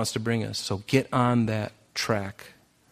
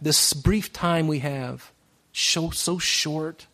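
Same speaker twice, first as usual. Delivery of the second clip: slow and hushed; 3 semitones higher, slower than usual. Real, not acted. Preacher to congregation, slow and hushed on how short life is. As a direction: linger on each word, let it sink in. Slowing on life's brevity.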